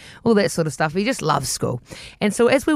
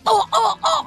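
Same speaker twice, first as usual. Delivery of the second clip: high, whimpering oh no; mock scared kid; 12 semitones higher than usual. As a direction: play the cowed boy, squeaky. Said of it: "He's like".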